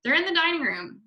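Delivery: high, urgent alarm; hissed. A narrator's reading. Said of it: "hissed the mother".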